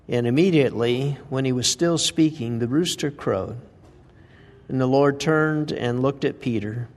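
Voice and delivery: measured, solemn reading of the Gospel passage; scripture reading. Acted. Preacher reading the denial story aloud to the congregation, solemn. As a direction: read the passage with calm weight.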